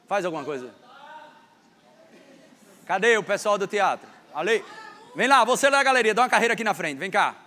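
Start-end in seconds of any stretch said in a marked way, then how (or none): 2.9-7.4 loud call across the church. Real, not acted. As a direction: call them up from the gallery. Pastor chamando o pessoal do teatro. (chamando alto)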